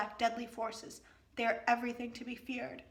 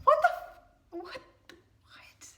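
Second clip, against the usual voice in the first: high, loud cut-off outburst; stunned; 10 dB louder than usual. Real, not acted. Reader stunned by the twist, blurting out. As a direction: blurt it out in disbelief.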